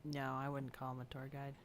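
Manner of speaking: ordinary talk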